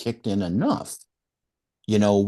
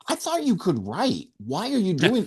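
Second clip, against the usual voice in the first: mean editor; 5 semitones higher, 3 dB quieter than usual. Retold or imitated. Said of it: "She just said it in a mean way".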